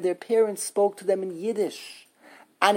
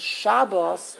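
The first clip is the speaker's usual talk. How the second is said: SHAB-bos, weak final syllable; Yiddish first-syllable stress. Shown as a demonstration. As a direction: lean on Shab in Shabbos. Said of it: "is the Yiddish way of saying".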